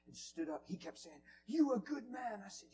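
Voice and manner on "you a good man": put-on raised, higher Spanish-accented voice; retold praise in a Spanish accent. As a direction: imitate an insistent Spanish man. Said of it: "and a Spanish man".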